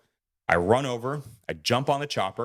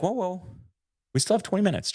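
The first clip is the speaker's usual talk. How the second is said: imitating a friend's urgent, higher "whoa, whoa"; mock alarm, pitched up to stop him; 9 semitones higher than usual. Friend stops him removing gear.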